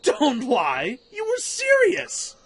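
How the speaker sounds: very high, loud accusing yell, dragging out serious; furious shout. Acted. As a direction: scream the accusation at him. Quarrel in the cave.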